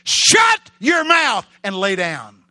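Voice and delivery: slow, thunderous rebuke; screamed command. Acted. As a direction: roar at the storm from the depths. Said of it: "He actually screamed from the depths of his spirit".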